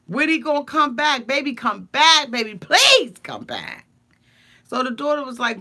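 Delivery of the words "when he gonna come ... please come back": put-on loud, slowed-down begging, baby come back; over-the-top wail for her man; mock pleading. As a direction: ham up a desperate plea for him to return. Jenny begging Submit to return.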